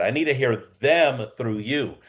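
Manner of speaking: slow repeat leaning on "them"; stress on THEM. Shown as a demonstration. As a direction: repeat it slowly, weight on "them". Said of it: "Let me repeat that".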